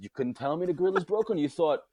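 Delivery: hammed-up furious tirade; retold rant. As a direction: tear into him, outraged. Ranting at deli guy.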